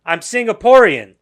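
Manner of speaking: hammed-up tired witness; mock weary repeat answer. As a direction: say it slowly as if for the hundredth time.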